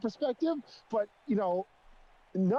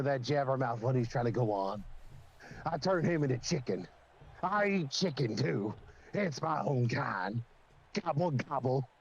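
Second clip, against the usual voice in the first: bird character; 4 semitones lower than usual. Pretend.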